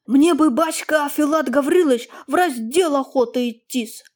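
a hint of a naive young peasant. Young peasant asks the master, naively. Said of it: "необыкновенно наивным голосом".

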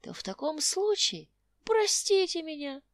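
put-on old tramp voice. Old tramp talks to quarrelling couple.

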